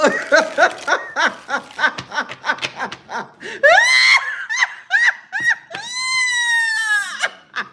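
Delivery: high, loud, drawn-out cackling laugh; long shrieking laugh. Real, not acted. Psychic laughing at a commenter's empty threats, long shrieking laugh. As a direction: laugh long and piercing, unable to stop.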